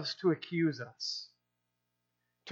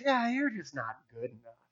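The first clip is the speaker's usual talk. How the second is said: much softer, lower needling inner voice; hushed lower taunting whisper-like voice; soft accuser voice; 6 semitones lower, 6 dB quieter than usual. Retold or imitated. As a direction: breathe the doubt in quietly, like a voice inside. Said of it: "a little voice inside us says".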